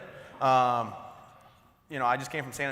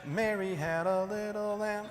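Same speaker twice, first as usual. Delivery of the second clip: higher, slow hammed-up showman; mock flexing show-off; 6 semitones higher, slower than usual. Speaker flexing for the audience, hammed-up posing voice. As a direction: ham it up like a bodybuilder posing. Showing off pecs, mock flirt.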